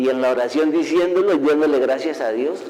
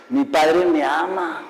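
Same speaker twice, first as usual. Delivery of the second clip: laughing; slower than usual. Real, not acted. Laughing testimony of God's love.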